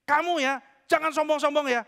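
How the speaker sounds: plus aigu et plus fort, donneur de leçons; sermon condescendant. Retold or imitated. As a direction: faire la morale de haut. Pria sombong menasihati.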